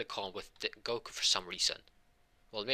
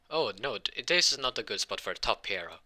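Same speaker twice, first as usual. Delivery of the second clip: louder, fretting hero; mock dismay; 2 semitones higher, 5 dB louder than usual. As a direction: worry aloud in a hammed-up way. All Might frets over his blunder.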